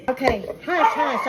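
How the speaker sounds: laughing while shushing the dogs; giggly, half-amused shush. Real, not acted. Hushing the dogs while filming.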